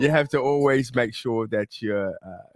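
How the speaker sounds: put-on British accent. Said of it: "that ain't his real accent".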